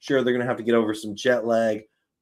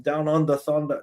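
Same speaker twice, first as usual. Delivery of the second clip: badly faked Australian twang, slightly raised; terrible Aussie accent; 4 semitones higher than usual. Streamer retrying his failed accent for viewers, mock Aussie accent. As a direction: try out a shaky Aussie impression. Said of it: "blame my Canadian accent".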